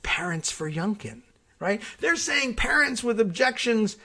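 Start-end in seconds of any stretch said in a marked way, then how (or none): 2.0-3.9 climbing high and loud in real agitation; getting emotional. Real, not acted. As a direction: let the outrage boil over, higher and louder. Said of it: "I'm getting emotional again".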